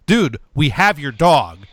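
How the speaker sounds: mildly exasperated official; pissy. Retold or imitated. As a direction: huff it like an annoyed town office worker. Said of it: "getting, like, a little, like, pissy".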